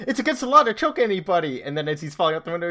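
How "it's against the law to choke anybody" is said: mock cop voice. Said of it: "he's like".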